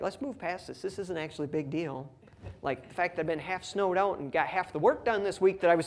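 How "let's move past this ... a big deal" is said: exasperated parent. Retold or imitated. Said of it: "I get a little bit exasperated".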